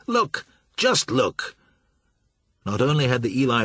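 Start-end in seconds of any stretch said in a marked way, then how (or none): 0.1-1.6 urgent exclaim. A narrator's reading. Pilot exclaiming at wreck.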